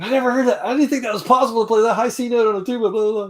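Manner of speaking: high, lightly put-on astonished voice; amazed band director. Director praising the student's high note, high amazed voice. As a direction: marvel like an impressed teacher.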